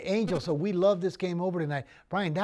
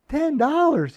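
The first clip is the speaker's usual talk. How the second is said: incredulous buyer; 9 semitones higher, 8 dB louder, slower than usual. Retold or imitated. Buyer shocked at low price.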